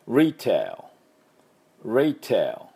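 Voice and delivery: retail with English r and a final l. Shown as a demonstration. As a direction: say retail with r and a dark l ending. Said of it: "リテーラーの、あの、発音ですね".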